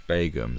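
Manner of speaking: Begum as BAY-gum; long AY vowel in Begum; radio pronunciation. Shown as a demonstration. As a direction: open Begum with a clear "bay". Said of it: "That's how they pronounced it".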